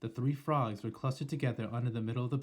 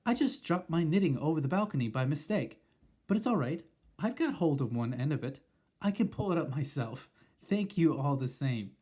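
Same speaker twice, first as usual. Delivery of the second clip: higher, calmly casual; cool grandmother; 3 semitones higher than usual. Acted. Grandmother lying coolly to the witch, higher voice. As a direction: sound perfectly untroubled. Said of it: "the coolness of her voice".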